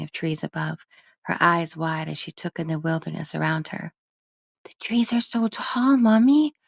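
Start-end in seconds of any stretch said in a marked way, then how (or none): 4.6-6.5 put-on high, bright child asking; a small girl wondering aloud; little girl voice. Child voice Lilica.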